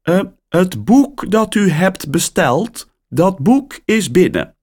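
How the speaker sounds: surprised caller on the line; woman's voice. A narrator's reading.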